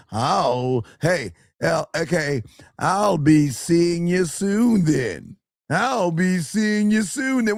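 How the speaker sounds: slow, hesitant mock of a timid guy. Mocking his friend's weak reply, slow and hesitant. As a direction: drag it out like a nervous guy.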